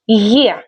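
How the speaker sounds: gliding "yeh" for the letter. Shown as a demonstration. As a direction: say the letter as the start of yes. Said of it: "as in yes".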